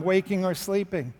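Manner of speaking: usual speaking voice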